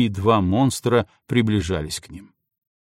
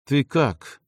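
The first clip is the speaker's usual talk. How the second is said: through gritted teeth; 3 semitones higher than usual. Acted. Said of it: "сквозь зубы процедила".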